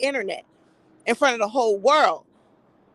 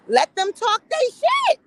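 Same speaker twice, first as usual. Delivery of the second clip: emphatic; 12 semitones higher, slower than usual. Real, not acted. Dismissive outburst about men arguing.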